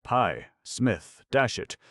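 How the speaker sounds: indignant youth shouting after a cab; calling loudly. A narrator's reading. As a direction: call after him in a huff. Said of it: "who called loudly".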